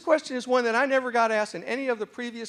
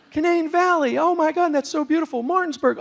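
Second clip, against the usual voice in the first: high, louder gushing; excited; 7 semitones higher, 6 dB louder than usual. Retold or imitated. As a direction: rattle off beloved places with delight. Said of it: "I get excited".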